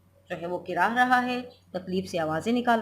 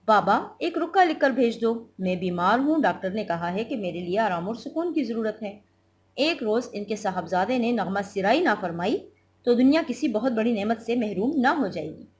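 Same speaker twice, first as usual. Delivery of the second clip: lightly voiced husband, mocking; a hint of a sneering husband; husband's sarcastic order. Reads husband's lines in play. (व्यंग्य करते मियाँ का हल्का अंदाज़)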